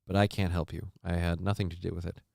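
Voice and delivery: a light, dry public-radio read that sounds earnest; NPR newscaster voice. Acted. Streamer answers a viewer's chicken complaint as a lightly voiced NPR newscaster. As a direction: play it like an emotionally invested radio host who is really deadpan. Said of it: "I'll do my N P R newscaster".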